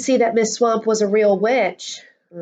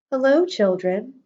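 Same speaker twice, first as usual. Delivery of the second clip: sweet voice; 3 semitones higher than usual. Acted. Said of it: "someone said in a sweet voice".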